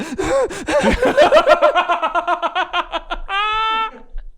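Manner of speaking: high, drawn-out mock sobbing; hammed-up wail out of the window; imitated upset wailing. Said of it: "really angry or upset".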